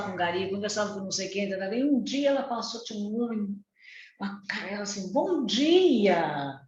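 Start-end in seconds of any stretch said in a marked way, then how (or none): 5.1-6.6 drawn-out, lilting "bom dia"; cheery greeting. Retold or imitated. Mother greeting a stranger on her walk, cheerily. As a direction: sing the greeting out to a passer-by. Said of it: "foi a forma dela falar e a vibração".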